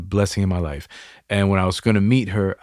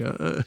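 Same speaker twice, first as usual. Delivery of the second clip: imitated do-nothing groan; mock idle groan; 6 semitones higher, 9 dB quieter than usual. Host mimicking someone sitting around doing nothing, mock groan. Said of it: "you're just sitting around like".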